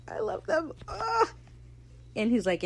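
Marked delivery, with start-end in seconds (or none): 0.1-1.3 high, teary gushing squeal; lovestruck, voice climbing into a squeal; gushing Steed. Retold or imitated. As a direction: swoon over him like a smitten fan. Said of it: "Steed's just eating it up like".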